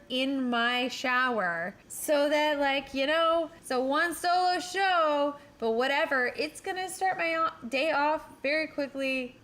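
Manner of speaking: excited. Real, not acted. Excited vibrator confession.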